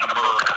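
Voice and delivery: "America" with a rounded "mor" sound. Retold or imitated. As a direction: say "America" like "Amorica", rounded o in the middle. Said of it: "they don't have a southern accent, but they're doing it with a U".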